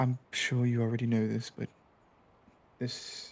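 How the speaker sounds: whispering quietly. Game master voicing a character who pulls the player aside from the stretcher, whispering. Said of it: "he kind of whispers to you".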